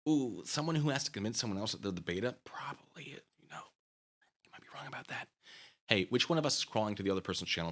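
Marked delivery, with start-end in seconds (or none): 2.4-5.3 sarcastic murmur. Acted. Sarcastic aside.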